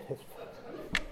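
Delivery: whispered, half-guilty aside; whispered admission. Real, not acted. Preacher confesses to the congregation in a whisper. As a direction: breathe it out as a sheepish secret. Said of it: "I gotta admit".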